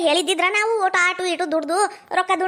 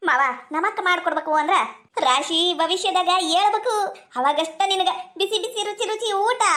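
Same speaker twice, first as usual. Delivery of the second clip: laughing tease. Acted. Wife teasing husband over breakfast.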